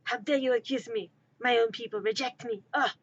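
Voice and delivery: mock-wounded French accent; fake French accent. Rejected smuggler to accuser, fake French accent. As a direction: lament in a hammed-up French accent. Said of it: "my attempt at a French accent".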